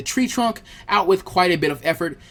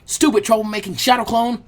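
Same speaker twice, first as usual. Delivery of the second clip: angry; 5 semitones higher, 3 dB louder than usual. Acted. Naruto angry at his clone.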